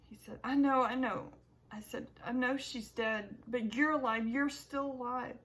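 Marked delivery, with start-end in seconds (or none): 0.4-1.3 relieved. Acted. Relieved reply to father. 2.2-5.4 relieved. Acted. Relieved, laughing son.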